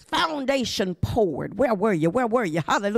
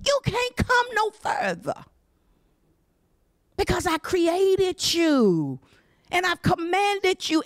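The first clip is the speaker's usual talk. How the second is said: God's command to waves; 5 semitones higher than usual. Acted. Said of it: "they got a command".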